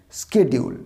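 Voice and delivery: "শিডিউল" the American way, hard sk- opening; American schedule, "শিডিউল" starting with sk; American pronunciation. Shown as a demonstration. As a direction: say "শিডিউল" as ske-di-ul. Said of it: "American এর pronunciation হচ্ছে".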